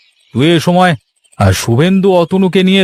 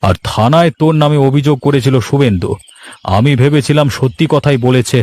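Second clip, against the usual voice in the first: an officer admitting his mistake; lightly lowered voice of a police officer; 2 semitones lower than usual. Acted.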